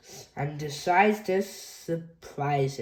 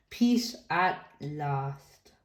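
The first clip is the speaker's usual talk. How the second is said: relieved; 3 semitones lower, much slower than usual. Acted. Relief after noisy day.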